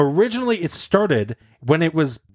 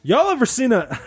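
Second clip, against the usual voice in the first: lady voice; 9 semitones higher than usual. Acted. Falsetto lady voice continuing.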